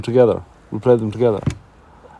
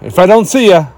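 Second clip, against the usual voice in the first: Truman Show farewell; 5 semitones higher than usual. Retold or imitated. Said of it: "Truman Show ... just before he walks out".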